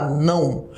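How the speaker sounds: "não" buzzing in the nose; "não" as a nasal glide into U; nasal demonstration. Shown as a demonstration. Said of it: "um tremor no seu nariz aí".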